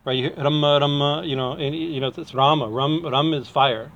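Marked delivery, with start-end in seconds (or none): 0.4-1.2 "Rama" said as "rumma", twice; short "uh" in the first syllable of "Rama". Shown as a demonstration. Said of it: "It's not Rama". 2.3-2.7 "Rama" said as "Raama"; long first A. Shown as a demonstration. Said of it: "It's not Rama".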